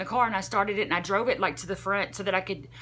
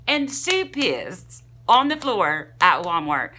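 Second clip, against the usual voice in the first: louder, words breaking into real laughter; laughing while telling; 6 dB louder, slower than usual. Real, not acted. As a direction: laugh through the punchline. Retelling mom's accident, laughing.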